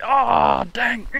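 sudden high, loud cry of dismay; real shocked yelp; startled outcry. Real, not acted. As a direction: yelp as the fish throws the hook. Big fish lost at the boat.

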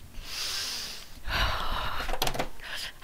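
long voiceless exhale; heavy sigh. Real, not acted. Player spent after the boss win, heavy sigh. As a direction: let out all the tension in one breath.

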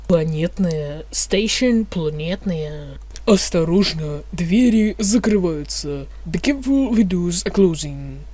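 metro announcer voice; mumbling subway conductor. Pretend. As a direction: read it like a train announcement. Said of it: "вы услышите информатор".

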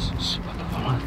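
unvoiced hushed whisper. Real, not acted. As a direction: shush them in a whisper. Sneaking up, urging silence.

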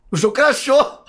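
high loud outburst at crash; excited shout. Real, not acted. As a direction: cry out that it crashed. Game just crashed. (grito agitado)

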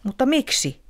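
the owl sadly begging for a reason; sad question. A narrator's reading. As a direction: ask it with sorrow. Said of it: "kysyi Otus surullisena".

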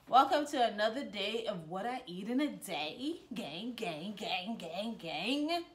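bright sing-song vlog greeting; hyped intro. Acted. Vlogger redoing her intro, hyped sing-song. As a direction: hype it up with the catchphrase.

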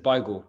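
BAGEL said as BY-gul; dad's Israeli-accented pronunciation. Retold or imitated. Quoting his dad from Israel, pronounced BY-gul. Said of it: "have a bit of an accent".

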